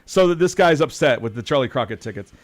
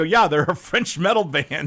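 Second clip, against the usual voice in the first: shouting over music; 3 semitones higher, slower than usual. Retold or imitated. Telling friend Rob over metal music, slow shout. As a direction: yell it across the bar. Talking over a metal band at the bar.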